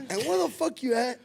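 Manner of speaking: mock angry demand. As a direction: bark the question at the friend in fun.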